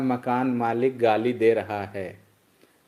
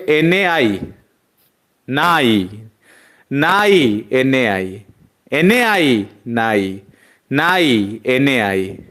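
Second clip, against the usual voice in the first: louder on नाई, louder on N A I, a back-and-forth chant; loud call and response; 5 dB louder, much slower than usual. Shown as a demonstration. Teacher playing loud call-and-response with the class. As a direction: shout the call and answer like a game. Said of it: "तो जोर से बोलोगे".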